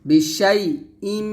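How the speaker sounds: "বিশাই", a clean stop, then a long hummed "ইম"; clear hamza. Shown as a demonstration. Teacher showing how it should sound, clear hamza. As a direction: separate "ইম" and hold the nasal m. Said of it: "এরকম".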